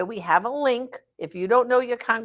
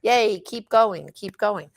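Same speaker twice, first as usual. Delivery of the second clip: mock cheerleader; 4 dB louder, slower than usual. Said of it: "like a cheerleader".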